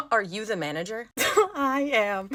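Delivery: words broken by laughter; laughing. Real, not acted. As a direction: laugh while saying it. Laughing through exchange.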